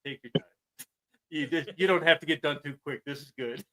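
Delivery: a hushed, contented inner thought. Retold or imitated. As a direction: murmur it to yourself, blissed out. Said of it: "thinking to myself".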